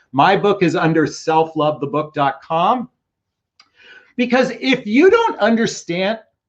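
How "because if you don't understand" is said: voice cracking upward to high pitch mid-phrase. Recommending relationship books to viewers when the voice cracks high. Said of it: "my voice went high pitched for a second".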